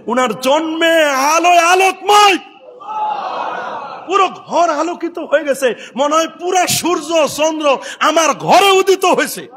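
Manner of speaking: ringing sermon delivery; impassioned preaching. Acted. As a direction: preach it out to the crowd. Preaches at full force.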